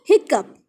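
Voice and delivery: हिकअप said as hick-up, with stress on hick; model pronunciation. Shown as a demonstration. Teacher asking and then answering how hiccough is read. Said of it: "क्या पढ़ते हैं?".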